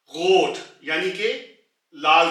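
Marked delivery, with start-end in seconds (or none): 0.1-0.6 गोट with a rasped throat ग, loud; throaty R word. Shown as a demonstration. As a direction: start गोट with a scraped ग. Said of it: "back of the throat से निकालनी है". (गोट की शुरुआत गले वाले ग से)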